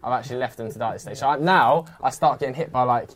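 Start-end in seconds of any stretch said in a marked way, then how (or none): 0.0-1.2 anxious inner thought. Retold or imitated. Panicked inner thought while fleeing.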